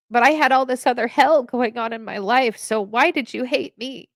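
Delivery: voice breaking with emotion. Real, not acted. Veteran retelling her childhood confusion, voice catching with emotion. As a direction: push through the lump in your throat. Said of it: "oh, I'm gonna get emotional".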